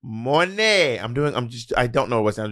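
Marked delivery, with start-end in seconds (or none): 0.0-1.0 put-on terrible Jamaican accent. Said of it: "I'm just doing a terrible Jamaican accent".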